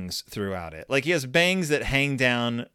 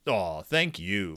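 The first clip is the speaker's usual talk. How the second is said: shy; 5 semitones lower, 4 dB quieter, slower than usual. Acted. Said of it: "said Big Paw shyly".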